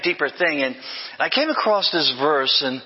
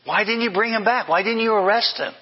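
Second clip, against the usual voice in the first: mildly upset, higher-pitched demand for answers; upset questioning; 7 semitones higher than usual. Acted. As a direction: question them with a touch of exasperation. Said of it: "are really upset with them".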